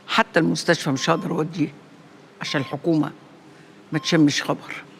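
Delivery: mother lamenting her sick son quietly; grieving, hushed. Acted. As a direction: speak as a worn-out mother. Grieving mother speaks softly.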